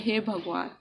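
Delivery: a soft, quiet "हे भगवान" sighed upward. Retold or imitated. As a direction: softly sigh "हे भगवान" as if looking up to the sky. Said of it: "ऊपर देख के इंसान कहता है". (ऊपर देखकर धीमे से "हे भगवान")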